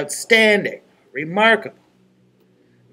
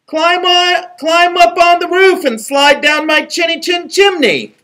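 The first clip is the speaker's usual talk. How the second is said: higher, sing-song little pig; piggy voice; 13 semitones higher, 4 dB louder than usual. Acted. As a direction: chirp it out like a cheeky piglet. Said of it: "a piggy voice answered".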